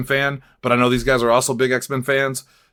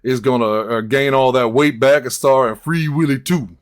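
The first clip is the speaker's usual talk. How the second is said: SNL Shaq quote. Retold or imitated. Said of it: "I gotta stop doing that quote".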